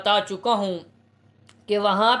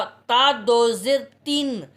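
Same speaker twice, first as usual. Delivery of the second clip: spelling out slowly; slower than usual. Shown as a demonstration. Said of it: "ये जो ता है".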